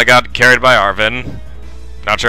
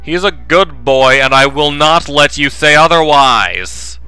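character voice; 3 semitones higher, 3 dB louder than usual. Acted.

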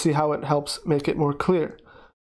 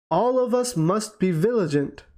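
"all of us must be vigilant" raised and weighted; stress on all of us must be vigilant; 3 semitones higher than usual. Shown as a demonstration. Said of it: "Okay, you add this emphasis".

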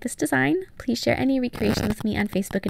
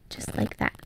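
whisper; 6 dB quieter, slower than usual. Real, not acted. Voice drops to whisper.

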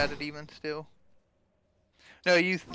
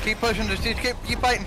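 urgent rallying call, higher; combat callout; 5 semitones higher than usual. Real, not acted. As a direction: push the team on, excited. Urging team in fight.

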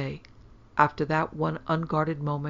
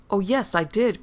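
put-on higher, louder childish boast; proudly insist, pitched up; triumphant cry; 5 semitones higher, 5 dB louder than usual. A narrator's reading. Daughter contradicting doubting mother, triumphant. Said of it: "cried Hyacinth triumphantly".

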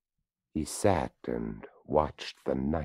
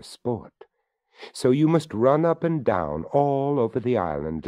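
higher, louder skeleton voice; 5 semitones higher, 5 dB louder than usual. Acted. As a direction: speak up as the courteous skeleton. Skeleton gives instructions.

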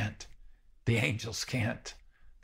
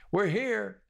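cheering call; 11 semitones higher, 3 dB louder than usual. Retold or imitated. Parents calling from the stands.

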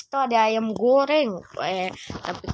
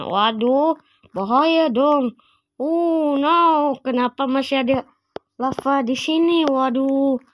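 louder, higher, alarmed over the lava; panicky alarm; 4 semitones higher, 4 dB louder than usual. Acted. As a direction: panic as the lava gets close. Lava danger in the sewer. (panik karena lava, suara lebih keras dan tinggi)

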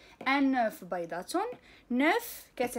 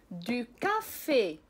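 slow demo; slower than usual. Shown as a demonstration. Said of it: "لقراءة بعض الكلمات".

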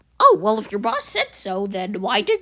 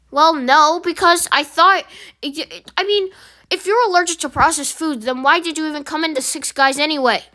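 higher, louder nervous excuse; flustered employee; 5 semitones higher, 4 dB louder than usual. Acted. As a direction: scramble to defend yourself. Flustered employee defends food.

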